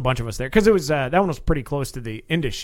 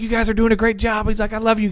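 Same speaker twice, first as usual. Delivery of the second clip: imitated high guy; 9 semitones higher, 3 dB louder than usual.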